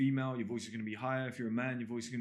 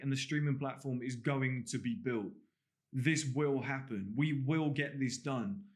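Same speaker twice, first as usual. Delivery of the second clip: slow, emphatic declarations; presidential; slower than usual. Shown as a demonstration. Coach giving an example of on-camera talk, slow presidential declaration. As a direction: declare it slowly, word by word. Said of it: "it's very presidential".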